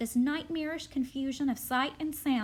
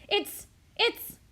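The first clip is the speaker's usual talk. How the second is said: frantic stammer; 8 semitones higher, 5 dB louder than usual. Acted. Charlie casts about for a name.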